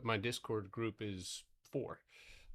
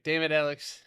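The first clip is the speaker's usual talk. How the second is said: loud, higher sitcom outburst; sitcom boss impression; 6 semitones higher, 7 dB louder than usual. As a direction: blurt it like a TV boss. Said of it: "The Office".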